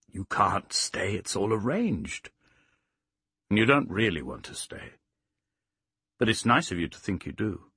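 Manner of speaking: lightly voiced Sirius, discouraging. Sirius telling Plaxy she can't stay, gently discouraging. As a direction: gently talk her out of it.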